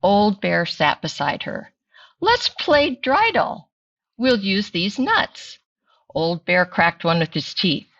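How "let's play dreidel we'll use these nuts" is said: Bubby Braina voice. Acted.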